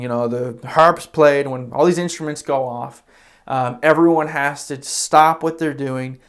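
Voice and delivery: booming royal proclamation, retold; king's royal decree. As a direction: announce the law to the whole kingdom. King proclaiming his law.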